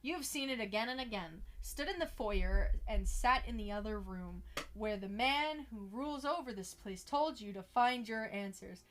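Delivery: measured second-person game narration; story narration. Acted. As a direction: read it like a suspenseful storyteller.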